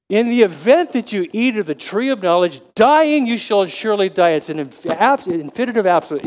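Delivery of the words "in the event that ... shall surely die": emphatic God's warning. Retold or imitated. Preacher voicing God warning Adam, emphatic. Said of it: "it's very emphatic".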